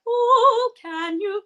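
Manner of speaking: high, loud, showy oh; mock belting singer. Guest mocks belty anthem singers. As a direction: ham up a big diva belt. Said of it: "And I'm like".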